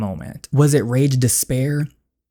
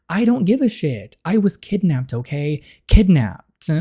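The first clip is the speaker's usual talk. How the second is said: angry outburst; 3 semitones higher than usual. Acted. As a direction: throw it back at him in anger. Daughter yelling at father.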